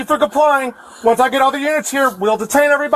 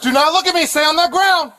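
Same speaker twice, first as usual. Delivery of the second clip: calling from far away; 5 semitones higher than usual. Real, not acted. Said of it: "calling out to suspects".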